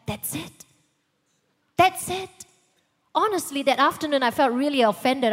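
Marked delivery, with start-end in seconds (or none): 0.1-0.6 soft, quizzical "That's it" with a rise; mock disbelief. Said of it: "And I'm like". 1.8-2.4 "That's it" thrown out higher and louder; indignant disbelief. Retold or imitated. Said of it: "And I'm like".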